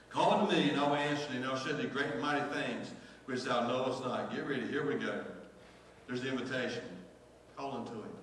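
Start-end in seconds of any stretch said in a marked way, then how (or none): 0.1-4.3 pastor proclaims the verse to his church, loud and rising; preached out loud. Shown as a demonstration. Preacher booms the promise to the congregation, full voice. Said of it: "So watch this".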